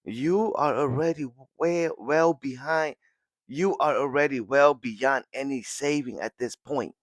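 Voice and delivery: high, pleading call to pull back; screaming plea. Retold or imitated. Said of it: "she's screaming".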